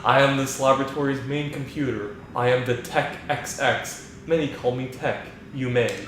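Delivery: flat, even AI voice like Hal; calm, emotionless machine; monotone computer voice. Acted. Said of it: "just that monotone voice".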